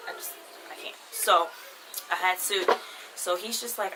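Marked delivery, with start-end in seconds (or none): 0.1-1.0 voiceless, barely-there murmur; overcome with disgust. Real, not acted. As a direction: let it drop to a whisper, too queasy to go on. Disgusted memory of the soup.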